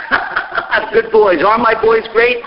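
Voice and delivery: put-on slow, laughing "I have good boys" with boys falling; 느리게 웃으며 자랑스럽게 "I have good boys"라고 말하기; laughing proud rabbi. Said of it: "He says".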